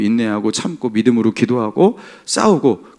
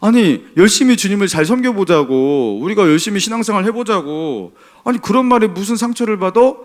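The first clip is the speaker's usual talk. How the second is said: mildly indignant, higher voice; retold indignation; 6 semitones higher than usual. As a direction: imitate your younger self scolding, a touch heated. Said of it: "저는 그냥 화를 낸 겁니다".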